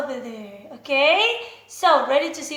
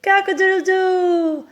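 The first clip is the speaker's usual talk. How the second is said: mock rooster crow; 2 semitones higher, 5 dB louder than usual. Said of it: "My dad, of course".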